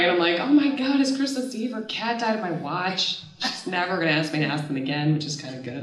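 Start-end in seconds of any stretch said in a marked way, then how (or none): 0.4-3.2 mock-distraught, higher start sinking back; a mildly hammed-up tearful outcry; tearful retelling. Upset daughter phoning her dad, mock-tearful. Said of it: "call my dad and I'm crying".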